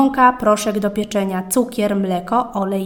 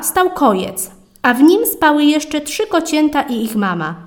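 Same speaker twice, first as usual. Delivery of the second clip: plain reading voice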